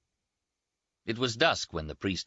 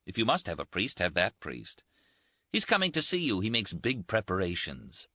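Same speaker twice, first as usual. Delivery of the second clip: lightly voiced Rinaldi, a bit higher and teasing; teasing Italian friend; 3 semitones higher than usual. Rinaldi teases his wounded roommate, lightly voiced higher banter. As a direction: toast him with mocking cheer.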